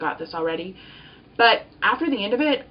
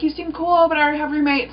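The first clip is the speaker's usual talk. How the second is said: high, louder put-on voice; imitated polite brush-off; 8 semitones higher, 4 dB louder than usual. People turning down her roommate request, high polite brush-off. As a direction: let them down in a high voice.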